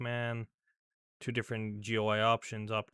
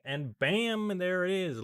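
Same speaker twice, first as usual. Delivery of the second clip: excited; 9 semitones higher, 6 dB louder, slower than usual. Real, not acted. System finally boots up.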